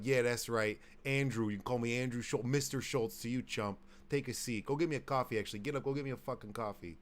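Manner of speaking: lightly put-on Chicago boss; mock Chicago accent, throwing weight around. Playing the friend bossing coworkers, light Chicago accent. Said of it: "start talking with some, like, Chicago-style accent".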